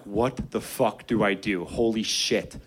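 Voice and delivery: low, slow mock panic; a hint of frozen fear. Kid facing a leaping shot blocker, mock panic. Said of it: "And I'm like".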